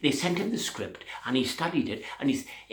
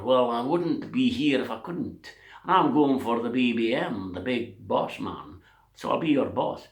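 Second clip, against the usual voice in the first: put-on Irish accent; 4 dB louder than usual. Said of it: "The Irishman and the Scottish accent".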